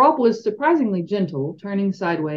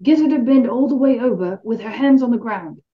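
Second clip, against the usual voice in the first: raised, carrying call; 5 semitones higher, 4 dB louder than usual. A narrator's reading. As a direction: call up to someone far off. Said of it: "Harry called".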